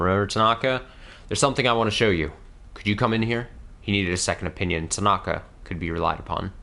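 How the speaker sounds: measured read-aloud with lightly voiced dialogue; audiobook-style narration; story narration. A narrator's reading. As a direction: read the story out steadily and clearly. Reads the game's story aloud.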